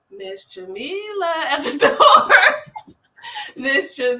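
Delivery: lightly voiced small boy calling her name, slow; a child happily greeting his teacher; imitating a little boy. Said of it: "he was like".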